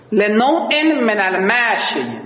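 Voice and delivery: لنوع من المشی said again slowly; slow repetition. Shown as a demonstration. Teacher repeats the phrase slowly for students. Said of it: "repeats the phrase".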